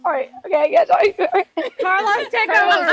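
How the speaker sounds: crying. Real, not acted. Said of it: "Sorry, I'm gonna cry".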